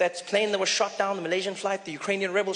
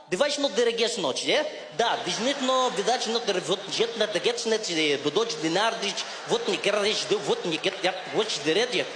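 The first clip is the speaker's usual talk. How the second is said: mock Russian gibberish. Russian guy switching to his language, fake gibberish. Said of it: "he switched ... into Russian".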